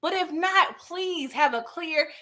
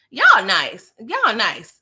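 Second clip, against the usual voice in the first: loud mock praise; 7 dB louder, much slower than usual. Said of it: "I said".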